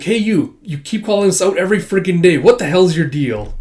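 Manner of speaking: high, loud confrontation; irritated outburst. Acted. Villain confronting another at the dinner table, irritated outburst. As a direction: lay into them, loudly fed up. Acted quarrel among villains.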